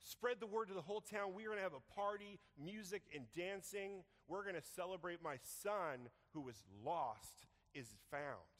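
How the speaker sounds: loud, high, jubilant announcement; joyful proclamation. Acted. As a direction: call the whole town to celebrate. Father announcing the party.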